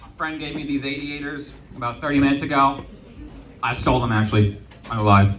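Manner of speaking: talking around ice in mouth. Real, not acted. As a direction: speak with ice in your mouth. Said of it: "I got ice in my mouth".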